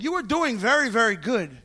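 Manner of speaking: light imitation of a Russian accent. Russian opponent praising the judoka he beat, light Russian accent. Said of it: "in his Russian accent".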